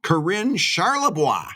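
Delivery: playful French accent on "Corinne Charlebois"; French spin. Shown as a demonstration. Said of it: "that little French spin I put on that".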